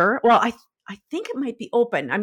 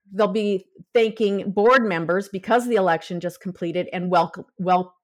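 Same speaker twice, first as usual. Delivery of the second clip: stiff jaw, tripping on words; talking through a numb, frozen jaw. Real, not acted. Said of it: "my jaw is frozen".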